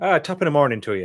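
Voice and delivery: terrible put-on Irish accent. Trying an irish accent for the other speaker; irish accent attempt. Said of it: "we'll go Irish accent".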